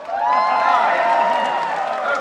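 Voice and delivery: very high, loud squeal of delight; delighted cry. Acted. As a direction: shriek ah yes like a thrilled fan. Mock delight at role.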